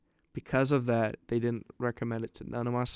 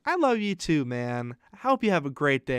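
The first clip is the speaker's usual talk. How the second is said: imitated friendly teacher; 2 semitones higher than usual. Teacher replying kindly to prankster.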